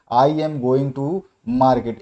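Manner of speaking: slow, word-by-word example sentence; teacher dictating an example; dictation reading. Acted. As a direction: read the sentence out slowly for students to note down.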